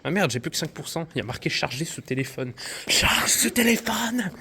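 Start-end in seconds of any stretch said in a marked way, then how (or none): 2.9-4.3 slow breathy whispered plea. Real, not acted. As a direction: beg the phone in a slow whisper. Whispered plea to dying phone. (murmure suppliant)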